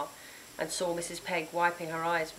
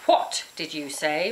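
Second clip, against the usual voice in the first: slow, louder menacing roar; 2 semitones lower, 4 dB louder, slower than usual. Acted. Witch roaring at the defiant girl, slow menace. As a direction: make each word a threat. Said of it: "roared Grizz".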